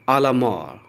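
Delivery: "à la mort" said as "ah la MOR"; French pronunciation. Shown as a demonstration. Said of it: "ध्यान से सुनिए". ("à la mort" को "आ ला मॉर" बोलें)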